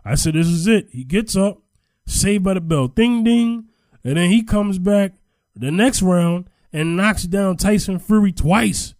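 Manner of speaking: loud, high-pitched, animated retelling; excited fight recap. Real, not acted. Boxing fan retelling a wild comeback to co-host, excited. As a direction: recount the knockdowns with rising excitement.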